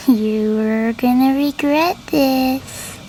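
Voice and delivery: slow, drawn-out menacing threat; slow doll threat. Acted. Doll Zoe threatening her captives, slow and menacing. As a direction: stretch each word like a creepy doll. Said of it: "So she said".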